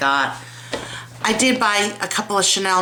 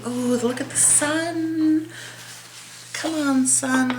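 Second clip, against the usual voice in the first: excited; 8 semitones higher, 3 dB quieter, slower than usual. Real, not acted. Delighted at the sunlight.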